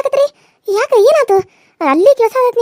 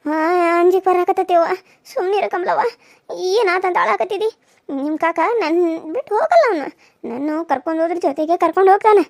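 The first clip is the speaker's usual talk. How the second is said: comforting aunt. Acted. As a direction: soothe the child while fear creeps in. Aunt figure comforts nephew.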